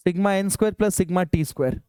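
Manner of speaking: very slow, each term spaced out; slow dictation. Shown as a demonstration. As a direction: spell out the formula for notes. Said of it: "teacher dictates formula". (धीरे-धीरे formula लिखवाना)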